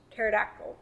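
each word said with teeth hidden; lips over teeth. Shown as a demonstration. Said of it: "without showing your teeth".

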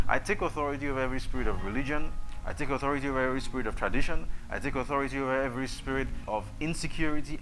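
fast, forceful declaration of authority; fierce commanding prayer. Acted. Binding spirits in Jesus' name.

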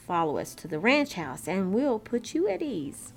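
lightly voiced friendly cowboy; hearty, lilting cowboy howdy; grinning cowboy greeting. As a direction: welcome the stranger with a bit of a grin. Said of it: "spoke up with a grin".

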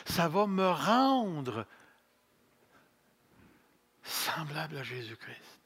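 ordinary talk

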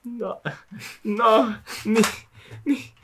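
mock telenovela wail. Telenovela-style wail about grandma.

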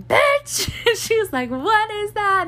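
high, loud shriek of disbelief; friend freaking out. Retold or imitated. Friend Tiffany texting the news, high excited shriek. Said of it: "she's, like, freaking out".

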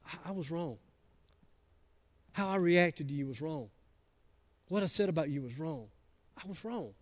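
soft, humble, owning it; sincere apology. Shown as a demonstration. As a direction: apologize quietly and mean every word. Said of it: "You say".

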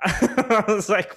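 laughs through it, slow and high; laughing at the memory of the moldy pot. Real, not acted. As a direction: chuckle out the lead-in slowly. Laughing while retelling.

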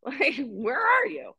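high, loud plea to be protected; mock pleading. Begging the bouncer friend not to leave, high mock plea. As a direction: beg in mild playful panic.

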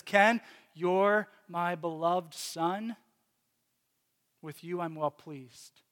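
slow, gentle voice of a loving father; tender slow reassurance. Retold or imitated. The Father assures Ken he is beloved, slow and tender. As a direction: speak it slowly as a father blessing his son. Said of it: "he looks at me and he says".

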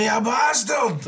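mock brawl. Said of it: "windmill punching an imaginary guy, going".

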